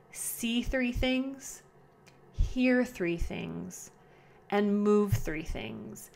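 slow, spaced calming steps; walk them through it slowly; slow guided instructions; slow and deliberate. Shown as a demonstration. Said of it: "And go slow".

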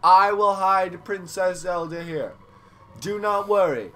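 village elder voice. Acted. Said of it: "my voice changed again".

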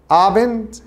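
أبند said slowly in German, stressed on the first syllable, ah-bent; teacher models أبند the German way; German word Abend. Shown as a demonstration. Teacher drills students on the word, clear German pronunciation. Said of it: "أبند ومورجن".

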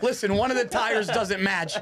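laughing. Real, not acted. Roasting the used car, laughing.

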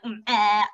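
low "mm, eh" frog sound; playful imitation of a frog; frog noise. Shown as a demonstration. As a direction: poke the tongue out on a blurted frog call. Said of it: "with their tongue shooting out".

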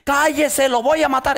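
high, loud threatening yell; the possessed young man threatening to kill the pastor; possessed threat yell. Retold or imitated. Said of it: "poseído".

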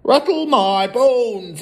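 high, slow ghostly wail; spooky parrot. A narrator's reading. Hidden parrot haunts the family, spooky wail. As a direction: stretch it out eerily, loud. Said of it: "soft and spooky this time".

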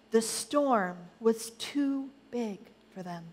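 dramatic picture-book narration with emphatic key words; storytelling to children. A narrator's reading. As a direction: build the storm, then pause for effect. Reads Bible story to children.

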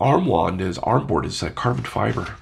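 congested, blocked nose; stuffed-up nose. Real, not acted. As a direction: talk through a stuffy nose. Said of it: "I'm pretty stuffed up. It's hard to talk".

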